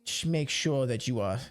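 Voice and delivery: hesitant, lightly voiced commander; a touch of theatrical bafflement. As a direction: reassure haltingly, then question in puzzlement.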